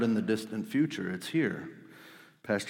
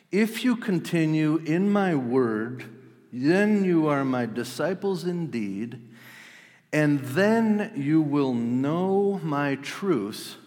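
slow, higher and louder, pressing each condition; emphatic scripture reading; 6 semitones higher, 4 dB louder, slower than usual. Shown as a demonstration. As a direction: build it like a preacher's climax. Re-reading the verse with force.

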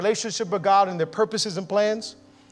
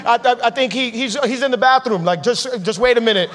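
mocking; 3 semitones higher than usual. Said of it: "he really starts mocking the false prophets".

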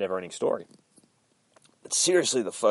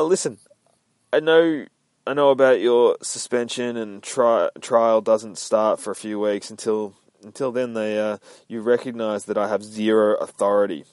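Carol's urgent plea; 3 semitones higher, 6 dB louder than usual. Acted. Carol voiced pleading with Finch.

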